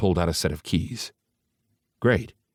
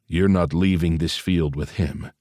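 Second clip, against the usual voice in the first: snarling. Acted. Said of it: "Ace snarled".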